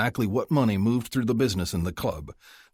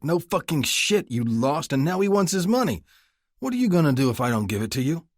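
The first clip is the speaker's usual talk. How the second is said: loud, rising furious rant; angry; 8 semitones higher, 4 dB louder than usual. Acted. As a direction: tear into her. Son berates mother.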